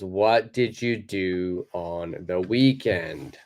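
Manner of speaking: slow, every word separate; careful full form. Shown as a demonstration. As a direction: spell out each word slowly. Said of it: "the lesson title is".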